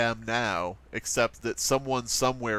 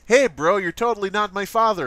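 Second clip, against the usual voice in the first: loud, higher hammed-up YouTuber protest; mock YouTuber outburst; 6 semitones higher, 6 dB louder than usual. YouTuber confronting Darth Vader as his father, loud mock disbelief.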